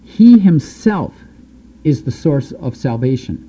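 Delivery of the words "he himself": he himself stretched slowly, higher and louder; emphatic stress. Real, not acted. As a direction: hammer home he himself. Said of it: "make no mistake about it".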